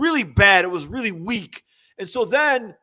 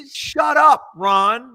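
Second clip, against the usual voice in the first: shouting; 6 dB louder, much slower than usual. Real, not acted. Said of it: "mock scolding the coach".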